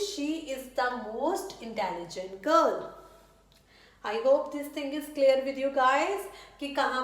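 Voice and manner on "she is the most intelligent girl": slow, word-by-word dictation pace; slow model sentence. Shown as a demonstration. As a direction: spell it out slowly for the class. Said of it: "तो मैं क्या कहूंगी?". (धीमे, साफ़ उदाहरण वाक्य)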